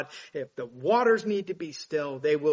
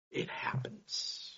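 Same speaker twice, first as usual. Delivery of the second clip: whisper; 8 dB quieter, slower than usual. Real, not acted. Awed point after Lazarus story.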